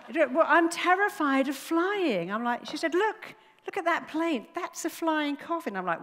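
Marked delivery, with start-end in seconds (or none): 0.1-2.3 high, loud mock terror; imitated panicky passenger. Passenger admitting her fear to the speaker, mock panic. 2.9-5.8 high-pitched mock alarm; imitated alarm. Passenger warning about the flying coffin, imitated alarm. Acting out terrified passenger pointing.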